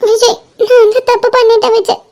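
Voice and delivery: tearful confession; crying. Acted. Confesses her mistake to Vijay, tearful. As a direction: let a sob break the line. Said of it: "அழாத".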